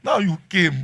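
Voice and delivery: put-on high, loud toddler scream; screaming daughter. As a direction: scream it like a baby refusing her father. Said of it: "she will scream".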